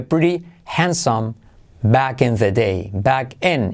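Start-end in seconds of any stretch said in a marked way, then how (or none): 0.0-1.3 "Pretty" slow and higher, TT as a tap; T as soft R. Shown as a demonstration. Teacher modelling the rule, "Pretty" slowly with soft R. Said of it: "T como R suave". 2.9-3.7 "in" with its vowel opened to E. Shown as a demonstration. Teacher explaining the vowel, "in" said like "en". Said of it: "Y como E".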